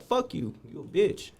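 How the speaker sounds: yelled high, a mock taunt; retold insult. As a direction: hurl the insult way up high at the guard. Cursing out the guard.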